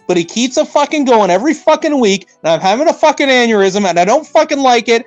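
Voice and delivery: frustrated rant. Real, not acted. Building rant about Anton.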